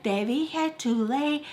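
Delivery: mock furious command, drawn out then punched; imitated angry order. Mad woman ordering the girl back to bed, imitated scolding. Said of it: "really mad".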